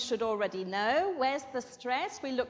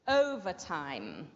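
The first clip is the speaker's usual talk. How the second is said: OVERtime, first syllable stretched and stressed; slow model word, OVERtime; 7 semitones lower than usual. Shown as a demonstration. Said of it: "It's on the O".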